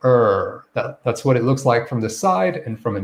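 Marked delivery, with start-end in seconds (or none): 0.1-0.6 lower, held "er" with rounded lips; er sound demo. Shown as a demonstration. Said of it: "that round lip and you say".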